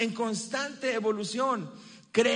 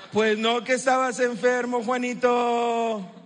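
mock scolding; 4 dB louder than usual. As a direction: call the kid out, half-teasing. Parent catching child's trick.

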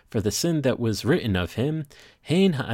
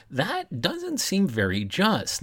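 incredulous; 9 semitones higher, slower than usual. Real, not acted. Objecting to the midrash's unfairness.

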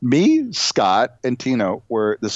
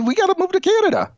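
much higher, fast excited burst; faster than usual. Real, not acted. Telling his co-host he wants to move, excited. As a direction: blurt it out thrilled. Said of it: "excited exclamation".

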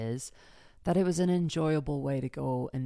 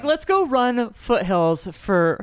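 excited; 5 semitones higher, 8 dB louder, slower than usual. Retold or imitated. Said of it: "We were like".

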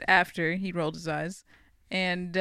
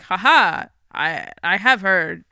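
gloating villain; 6 dB louder, slower than usual. Retold or imitated. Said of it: "she's like".

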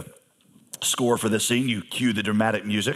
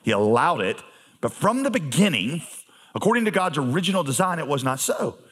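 calm reply. Retold or imitated. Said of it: "looks back at them very calmly and says".

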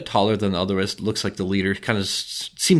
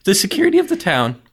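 goblin voice; 5 dB louder than usual. Acted. Goblin gatekeeper.

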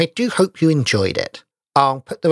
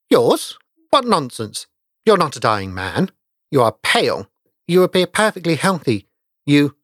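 incredulous protest; 3 semitones higher than usual. Acted. Young doctor scoffs at the pale stranger, incredulous.

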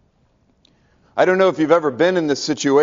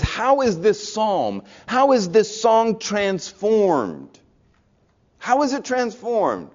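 slow emphatic question; 5 semitones higher than usual. Real, not acted. Preacher's pointed question.

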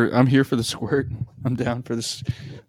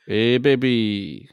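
slow, bad Russian come-on; terrible Russian accent; slower than usual. Friend playing a flirting Russian, terrible Russian accent. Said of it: "That is a terrible Russian accent".

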